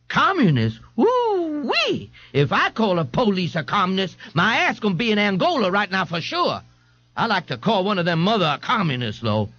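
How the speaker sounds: high, whooping disbelief; amazed young man. A narrator's reading. A young man reacts to another prisoner's story, amazed. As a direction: marvel at it in a high character voice.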